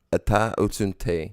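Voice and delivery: Ata usunte said slowly, each syllable clear; slow Assyrian phrase. Shown as a demonstration. Teaching how to say you are very beautiful, slow and careful. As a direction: spell out Ata usunte for a learner. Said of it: "how do you say "you are very beautiful".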